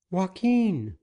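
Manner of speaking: high woman's call from afar; a young woman calling out to the captain. Acted. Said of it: "It was a woman's voice that called".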